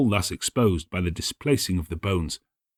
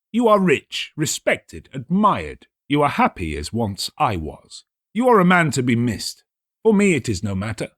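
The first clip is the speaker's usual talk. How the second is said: higher, pressing voice of feigned concern; a scheming host playing the worried friend; Montresor, urging; 4 semitones higher than usual. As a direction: coax the sick friend to turn back. Montresor urging turning back.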